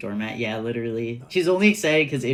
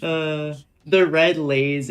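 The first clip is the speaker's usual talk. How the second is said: incredulous laugh; 5 semitones higher, 5 dB louder than usual. Real, not acted. Laughing disbelief to chat.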